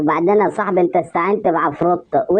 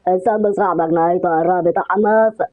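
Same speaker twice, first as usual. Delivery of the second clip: put-on haunting spirit voice; eerie possessed voice. Possessed friend closing in on Sambo, eerie ghostly voice. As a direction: intone a ghostly warning.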